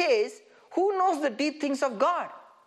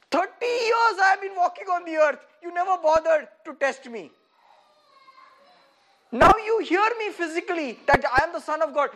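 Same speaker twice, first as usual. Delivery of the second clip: raised voice, half-shouted complaint; mock indignant reply; 3 semitones higher, 4 dB louder than usual. Preacher voices Jesus, complaining loudly to Satan. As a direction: act offended after years ignored.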